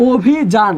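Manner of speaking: অভিযান sounded out "o-bhi-jan"; sounded out by rule. Shown as a demonstration. Teacher builds the pronunciation from the rules, sounded out by syllable. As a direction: say অভিযান with a closed o and a j. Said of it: "এখানে এসে কী হয়ে যাবে?".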